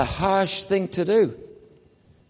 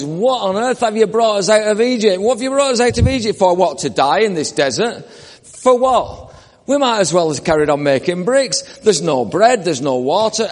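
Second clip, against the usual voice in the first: raised, indignant grumbling at Moses; Israelites complaining; 3 semitones higher than usual. Retold or imitated. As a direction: whine it like an ungrateful crowd. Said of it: "they spoke against God and against Moses".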